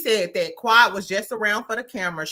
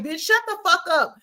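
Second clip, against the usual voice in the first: mock furious; 8 semitones higher than usual. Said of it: "Quad was pissed off. She was like".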